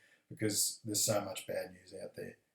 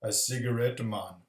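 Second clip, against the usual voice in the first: slow, lightly voiced stoner chimp; a hint of a slow, mellow chimp; chimpanzee character; slower than usual. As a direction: draw it out slowly like a laid-back chimp. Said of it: "And the chimpanzee says".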